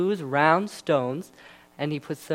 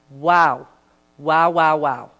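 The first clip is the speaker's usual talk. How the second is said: amazed wow; 6 dB louder, slower than usual. Real, not acted. Marvelling at Goliath's fall.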